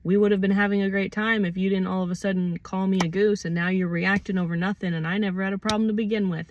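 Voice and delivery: quick, matter-of-fact blame-shifting; suddenly calm. Acted. Acting out the accuser shifting blame, suddenly calm. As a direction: reel it off calmly and fast. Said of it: "get calm and be like".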